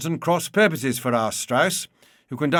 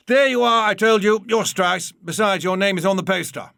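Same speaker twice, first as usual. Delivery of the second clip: higher and louder, triumphant "told you so"; triumphant insistence; 5 semitones higher, 4 dB louder than usual. Acted. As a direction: crow that you were right all along. Viennese triumphantly insists on identity.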